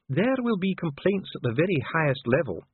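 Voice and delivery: high-pitched formal warning; indignant dwarf official. A narrator's reading. Dwarf warning the envoy of complaints, indignant.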